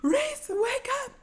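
high, slow whisper of his name; hushed urgent whisper. Retold or imitated. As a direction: whisper urgently to wake him. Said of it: "She's like".

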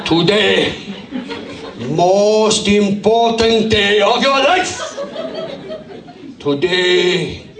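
hammed-up Southeast Asian taskmaster, drawn out; Southeast Asian accent. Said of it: "in Southeast Asia".

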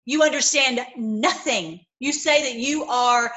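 loud scolding Jesus quote; stern rebuke. Acted. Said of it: "he is saying".

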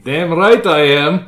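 slow, loud gloating villain. Acted. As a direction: relish it like a cartoon villain. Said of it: "he's gonna do the villain thing".

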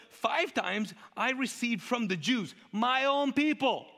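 very high, outraged disbelief; Paul's rant. Acted. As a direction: drag it out, climbing into loud indignation. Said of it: "Paul on a rant".

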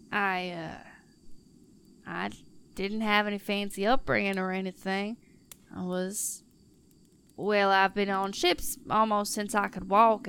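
lightly voiced half-orc, halting with long pauses at first; plain-spoken sailor, tongue-tied, then easing into the tale; flustered half-orc. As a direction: stumble shyly into a folksy life story. Flustered half-orc tells her past.

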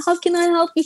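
lightly voiced sweet lady. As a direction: imitate a kindly woman offering help. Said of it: "This woman is just sweet lady".

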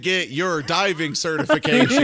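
a hint of a lewd nun; mock seductive nun. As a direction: lure him in, hamming it up. Joke line for the nun.

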